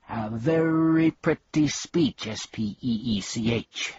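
mock the speech; sneering bee. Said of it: "sneered the bee".

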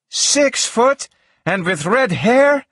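high, slow outraged scream as a character. A narrator's reading. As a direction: scream it in high-pitched disbelief. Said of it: "she screamed".

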